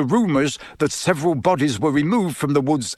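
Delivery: measured reading from a newspaper; reading aloud. A narrator's reading. Father reading the report to his family, reading aloud. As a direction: read out the article's wording. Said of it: "Listen to this".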